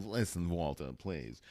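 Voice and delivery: imitating old-film dialogue; mock old-movie actress. Woman pleading with Walter, mock old-movie voice. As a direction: send up a pleading film heroine, starting high. Mimics the film clip just played.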